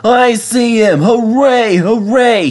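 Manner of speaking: high, loud hooting cheer; cheering bus. A narrator's reading. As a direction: whoop with delight at the sight. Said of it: "he cheered".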